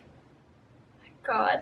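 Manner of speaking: slow, near-silent mouthing of words; secretly mouthing to a friend; mouthed, barely audible. Retold or imitated. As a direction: stretch it out softly, almost no voice. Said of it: "I'm just mouthing the words".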